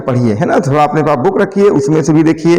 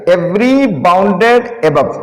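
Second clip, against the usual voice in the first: very slow, every word spaced out; slow reading; much slower than usual. Shown as a demonstration. Teacher reading the theorem statement slowly to students. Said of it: "पहले statement पढ़ दें".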